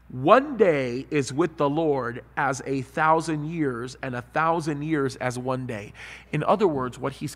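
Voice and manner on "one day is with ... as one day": deliberate, slow solemn reading; slow scripture reading. Acted. Pastor reading the verse to the congregation, slow solemn reading. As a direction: let each word of the verse land.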